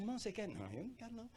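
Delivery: high, softened imitated voices; reluctant mock exchange. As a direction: murmur it as coaxing and shy refusal. Acts pastor coaxing reluctant member. (imitação tímida, aguda e baixinha)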